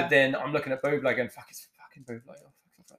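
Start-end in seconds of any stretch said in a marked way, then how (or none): 1.3-2.2 panicked inner voice. Retold or imitated. Panicking on seeing a singer. 2.4-3.0 whispered panicked swearing; frantic whisper to himself. Retold or imitated. Panicking on seeing a singer.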